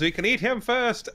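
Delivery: high mock yell; retold yell. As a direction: toss off the goblin's yell. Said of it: "and then he yells".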